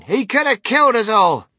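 high, loud accusation; furious old grandma, voice way up; screamed outrage. A narrator's reading. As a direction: cry it out, appalled. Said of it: "screamed Grandma Josephine".

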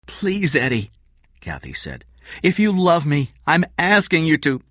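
Kathy begs Eddie if he loves her, pleading. Acted.

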